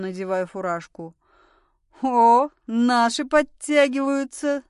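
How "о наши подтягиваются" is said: loud, higher, drawn-out welcome; amused. A narrator's reading. Woman greeting the arriving police, amused. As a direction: hail them with mock delight. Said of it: "засмеялась Анжела".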